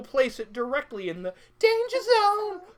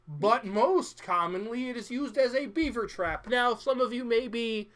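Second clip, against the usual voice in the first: showman patter. Acted. Sideshow host patter.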